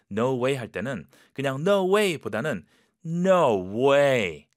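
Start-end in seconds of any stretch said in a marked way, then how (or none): 3.0-4.5 doubtful. Shown as a demonstration. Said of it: "약간 이런 톤으로".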